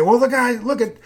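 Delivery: a hint of an indignant doubter; mock accuser. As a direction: play the suspicious skeptic crying foul. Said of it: "So somebody could say".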